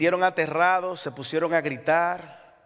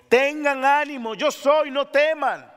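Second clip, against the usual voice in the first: high ringing preacher call; Jesus calling out to his frightened disciples; 7 semitones higher, 3 dB louder, slower than usual. Acted. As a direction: lift it as a command of comfort. Quoting Jesus.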